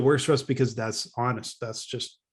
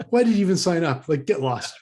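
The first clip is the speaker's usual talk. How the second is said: higher, louder mock outrage, voicing the angry student; mock angry complainer; 4 semitones higher, 4 dB louder than usual. Podcaster voicing the angry student's email, mock outrage. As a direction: throw the insult like an outraged customer.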